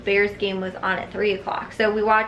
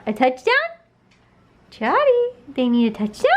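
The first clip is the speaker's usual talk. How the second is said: teasing dog talk; 3 semitones higher than usual. Retold or imitated. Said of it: "I was like".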